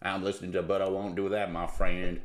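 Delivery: mock deep-voiced truck driver; CB trucker. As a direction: drop the pitch like a trucker on CB. Low CB trucker reply in skit.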